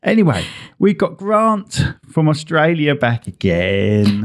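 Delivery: a hint of Australian on Australia; slight Australian accent. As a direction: lightly slip into Aussie. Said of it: "you went into a slight Australian accent".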